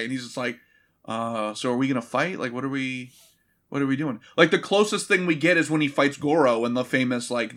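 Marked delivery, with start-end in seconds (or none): 1.1-4.2 low-key, mildly acted question; unbothered. Johnny Cage at the tournament, casually unbothered. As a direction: ask it with no diva in it. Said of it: "he didn't get the memo that day".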